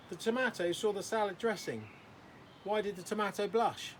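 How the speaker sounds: high, loud eager comic voice; eager joke teller. Acted. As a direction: overeager kid telling a joke. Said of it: "He would say".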